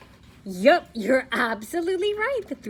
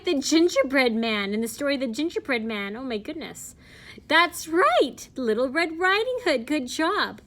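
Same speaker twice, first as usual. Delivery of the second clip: put-on bright, lively kids' host reading; kids show host. Reading to children.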